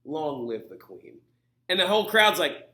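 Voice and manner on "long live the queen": low, slow solemn declaration; grand proclamation. Acted. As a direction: win the crowd over gallantly. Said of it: "and he goes".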